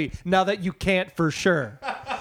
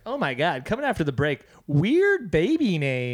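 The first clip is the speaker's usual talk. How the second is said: radio DJ voice. Retold or imitated. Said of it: "like, a radio D J would say".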